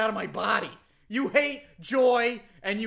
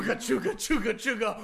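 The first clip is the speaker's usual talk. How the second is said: chugging toy train voice; 7 semitones higher than usual. Pretend. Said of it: "Are you making train noises".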